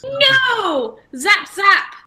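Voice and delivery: high, shouted cackling villain; loud evil emperor zapping; Palpatine impression. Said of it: "sounded like Senator Palpatine".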